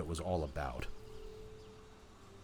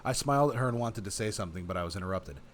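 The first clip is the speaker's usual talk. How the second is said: measured, expressive read-aloud; story narration; faster than usual. A narrator's reading. Player reading the game's story to viewers, story narration. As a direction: narrate it like an audiobook.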